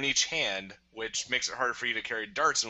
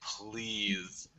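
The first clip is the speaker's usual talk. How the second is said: pleading to Nerf; 4 semitones lower than usual. Retold or imitated. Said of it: "be like".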